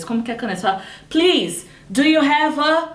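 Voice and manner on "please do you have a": higher-pitched polite request, left hanging; hesitant request. Acted. Learner asking for a pen forgets the word, hesitant request. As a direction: ask politely, pitched up, stalling before the missing word.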